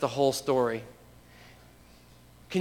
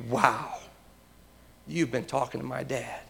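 softly awed, pitched a little down; hushed amazement; 2 semitones lower, 7 dB quieter than usual. Acted. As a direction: say it softly, in quiet wonder. Acting out Jesus's amazed reaction.

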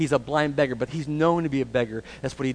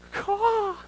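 very high screeched caw; crow's caw. Shown as a demonstration. Preacher showing how the beggar screeched, high crow caw. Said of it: "like a, a crow".

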